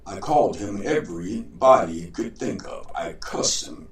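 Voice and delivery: a hint of a proud trickster showing off; boastful John.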